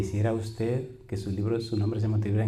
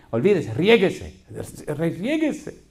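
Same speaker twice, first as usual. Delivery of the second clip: higher, louder urging cry; cheering on; 5 semitones higher, 4 dB louder, much slower than usual. Retold or imitated. Preacher retelling how he urged the crying mother to let go. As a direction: egg her on to let loose.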